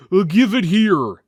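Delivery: the unlearned warrior wants the cup now; grabby brute. Acted. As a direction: blurt it like a greedy oaf. Brutish Grutus grabbing for silver.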